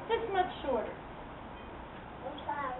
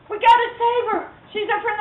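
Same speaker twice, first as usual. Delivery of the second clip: put-on urgent boy voice; 9 semitones higher than usual. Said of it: "And Dewey goes".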